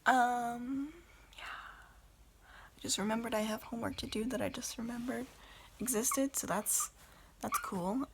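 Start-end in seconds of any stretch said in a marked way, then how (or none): 2.8-6.4 whispering. Real, not acted. Whispered aside about homework.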